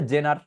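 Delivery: 'জেনার' with a hard Bengali j; Bengali-habit pronunciation. Shown as a demonstration. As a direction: say 'জেনার' as a beginner reads it. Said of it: "তারা actually এগুলোকে কিভাবে উচ্চারণ করে". ('জেনার' বাংলা জ দিয়ে)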